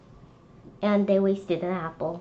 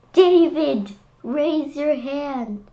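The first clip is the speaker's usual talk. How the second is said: stern teacher; 6 semitones higher, 5 dB louder, slower than usual. Acted. Teacher correcting David.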